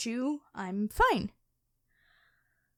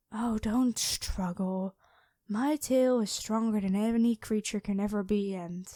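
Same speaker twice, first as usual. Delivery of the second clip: lightly voiced dragon queen. Dragon queen toying with her captured hunter, calm and lightly menacing. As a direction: purr like a predator who has already won. Dragon reveals herself to knight.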